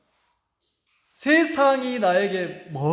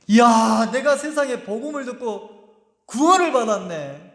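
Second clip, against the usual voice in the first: joyful amazement; 3 semitones higher than usual. Acted. Believer recalling being saved and made God's child, joyful amazement. Acted joy of a new convert.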